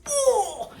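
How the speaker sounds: high, loud laughing "Oh!"; laughing exclamation. Real, not acted. Telling the story, she bursts out laughing, high and loud.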